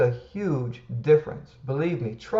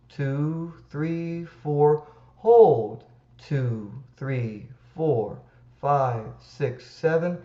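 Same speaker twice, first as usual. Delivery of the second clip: guided breathing count; slower than usual. Shown as a demonstration. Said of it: "What you're gonna do is".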